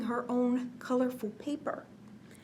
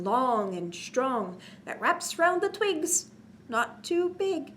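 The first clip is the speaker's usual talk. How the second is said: put-on reading to children; slower than usual. A narrator's reading. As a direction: bounce the rhyme for little listeners. Reads cumulative rhyme to children.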